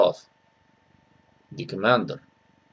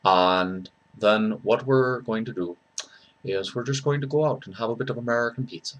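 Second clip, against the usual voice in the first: soft, lower Dublin accent; Irish accent; 3 semitones lower, 6 dB quieter than usual. Shown as a demonstration. Dubliner planning a pint at the pub, Irish accent. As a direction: do a rough Dublin lilt, quietly.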